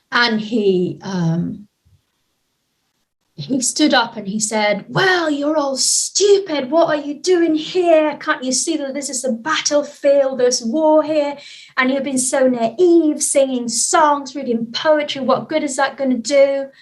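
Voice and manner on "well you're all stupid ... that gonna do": a touch of a raised, scolding voice; higher-pitched, slow indignant rebuke; angry man. Retold or imitated. Retelling the angry man scolding the poetry group, mildly raised.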